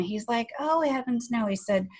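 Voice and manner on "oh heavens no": higher-pitched, lightly imitated prim boy; lightly voiced prissy child's denial; prim little boy. Intern asked about his parents' vote, lightly voiced prim boy. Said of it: "this little twelve-year-old boy".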